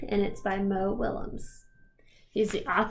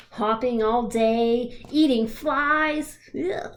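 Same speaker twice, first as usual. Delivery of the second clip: worried disgust; much slower than usual. Acted. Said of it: "he looks a little bit worried".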